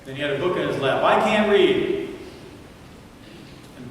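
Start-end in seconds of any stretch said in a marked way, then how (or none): 1.0-2.1 put-on high, slow, sobbing child's wail again louder; child crying out. Boy pleading with Brown, high slow sobbing cry. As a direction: wail it like a frightened little boy. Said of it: "the little boy cried out".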